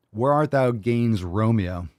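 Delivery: a touch of theatrical Shakespeare, slow; drawn-out playful Romeo call, lightly hammed; mock Shakespeare. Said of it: "Oh, Romeo".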